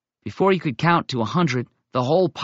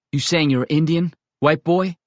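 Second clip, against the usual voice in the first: higher, louder doubting sneer; incredulous challenge; 5 semitones higher, 4 dB louder than usual. Acted. Bear Meat mocks the white boy's claim, incredulous. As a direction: question him like you can't believe it.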